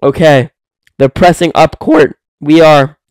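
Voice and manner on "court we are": voice crack. Real, not acted. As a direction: let the voice break mid-word. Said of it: "excuse my voice crack".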